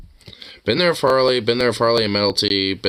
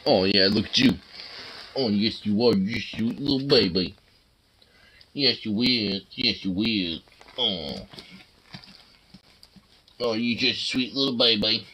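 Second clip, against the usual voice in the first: talking to a dog; 4 dB quieter than usual. Real, not acted. Cooing softly at pet.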